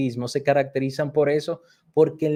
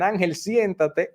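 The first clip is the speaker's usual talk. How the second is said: higher, slow sing-song order; playful order; 6 semitones higher, slower than usual. Retold or imitated. Teacher tells the boy to sit down, higher and slow. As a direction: tease the boy into sitting. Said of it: "le decían".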